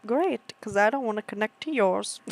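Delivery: sarcastic delight; fake-cheery retort; sarcastic cheer. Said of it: "I'm like".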